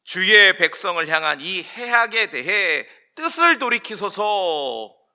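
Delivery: drawn-out scripture plea; solemn, slowed entreaty; Moses' entreaty. Acted. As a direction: implore God, stretching the final words. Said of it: "모세의 간청의 내용입니다".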